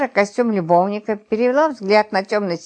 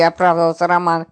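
plain reading voice

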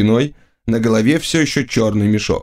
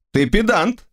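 haughty; 9 semitones higher than usual. Acted. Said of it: "заявил я свысока".

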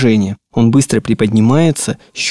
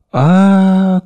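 ordinary talk, nothing marked

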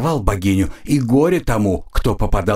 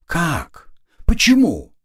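panicked; 6 semitones higher, slower than usual. Acted. Goddess panics, fear creeping.

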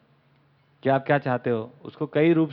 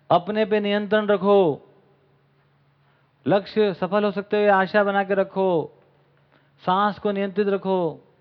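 higher, slow, measured recital; declaimed instructions; 4 semitones higher, slower than usual. Acted. Speaker setting up a book's twist, declaimed instructions. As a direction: recite a list of rules, stretching each command.

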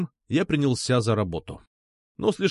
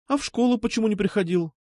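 put-on a touch higher, girlish reproach; a hint of a sulky schoolgirl; lightly voiced girl asking why he skipped school; 9 semitones higher than usual. A narrator's reading.

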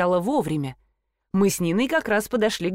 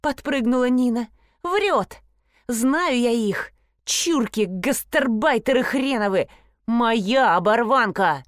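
higher-pitched indignant quarrelling; indignant outburst; 4 semitones higher, slower than usual. Acted. Nina insists the tattered divan is hers, indignant. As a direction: protest in a raised, scornful pitch.

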